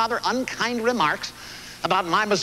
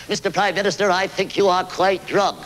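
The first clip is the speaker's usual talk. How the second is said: mock British Lady Astor. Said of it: "such a strong British accent".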